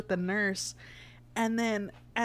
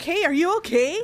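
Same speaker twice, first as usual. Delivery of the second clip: concerned; 10 semitones higher, 8 dB louder than usual. Retold or imitated. Nurse's concerned call.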